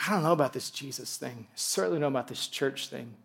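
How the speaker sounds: low, soft reluctant doubt; mild skepticism. Acted. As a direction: voice a hesitant newcomer's doubts quietly. Voices a doubter in the room.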